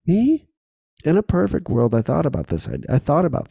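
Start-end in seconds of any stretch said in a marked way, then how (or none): 0.1-0.5 much higher, startled disbelief; incredulous what me. Retold or imitated. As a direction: squeak it out, pointing at yourself in shock. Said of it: "I was like".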